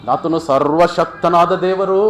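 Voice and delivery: loud, slow, stretched declaration; acted ringing confession of faith; awed proclamation. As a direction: proclaim it with drawn-out weight. Officer proclaims God almighty, then repeats.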